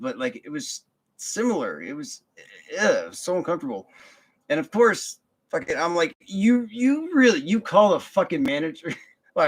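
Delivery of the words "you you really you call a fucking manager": incredulous, cursing. Retold or imitated. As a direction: drag out the shock, swear at them. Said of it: "I don't think I said it like that".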